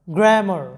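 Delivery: গ্রামার as gra-mar, first vowel গ্র্যা; pronunciation demo. Shown as a demonstration. Teacher models গ্রামার for students, pronunciation demo. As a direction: say গ্রামার with a single m, ending মার. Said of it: "এরকম হবে".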